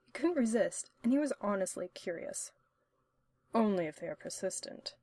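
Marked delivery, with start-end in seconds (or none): 3.5-4.9 lightly. Acted. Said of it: "Hannibal said lightly".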